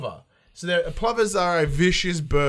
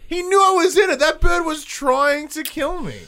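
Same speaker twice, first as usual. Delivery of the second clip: mock outrage; 12 semitones higher, 6 dB louder than usual. Real, not acted. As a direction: insist the bird was out to get him. Outraged at the bird.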